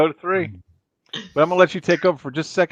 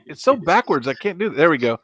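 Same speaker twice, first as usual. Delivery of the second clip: ordinary talk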